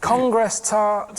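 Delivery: slow, deliberate "Congress tart"; code word. Pretend. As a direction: say the code word slowly into the phone.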